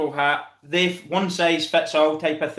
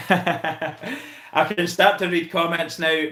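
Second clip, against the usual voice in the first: laughing; slower than usual. Real, not acted. Laughing after finishing his rant.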